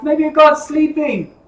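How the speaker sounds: slow, drawn-out taunting jeer; mocking taunt. Elijah taunting the prophets of Baal, slow mocking jeer. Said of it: "Elijah's mocking them".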